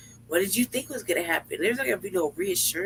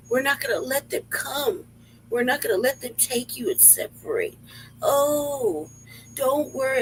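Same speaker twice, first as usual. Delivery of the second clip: a hint of sugary, higher reassurance; mocking gentle mayor; 5 semitones higher, slower than usual. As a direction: mimic the mayor's soothing tone, half-mocking. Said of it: "the gentleness and the".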